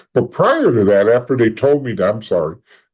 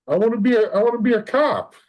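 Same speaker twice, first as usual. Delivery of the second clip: timid son; 10 semitones higher, faster than usual. Retold or imitated. Son announcing to parents.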